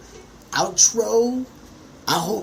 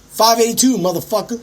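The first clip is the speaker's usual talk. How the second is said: mock shout; 8 semitones higher, 6 dB louder than usual. Retold snapping at someone.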